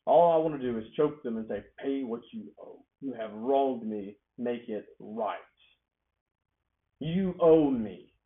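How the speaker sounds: slow, pressed-down demand, swelling loud at the end; grudging fury. Acted. A hurt heart wanting to choke the debtor, slow seething demand. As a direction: hold back the anger then let it out. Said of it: "you'd say".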